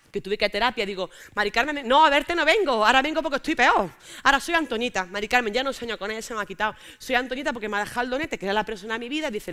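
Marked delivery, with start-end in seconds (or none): 1.3-9.3 pleading. Retold or imitated. Pleading to her therapist.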